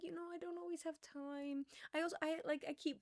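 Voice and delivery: put-on high, loud sweet little old lady; old lady impression. Old coworker explains her sandwiches, high old-lady voice. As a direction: imitate an adorable elderly coworker. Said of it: "this is how she talks".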